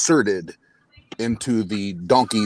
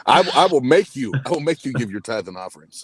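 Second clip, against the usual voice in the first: Pentecostal preacher voice; 4 semitones higher, 4 dB louder than usual. Pretend. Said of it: "don't make me go in my, uh, Pentecostal preacher voice".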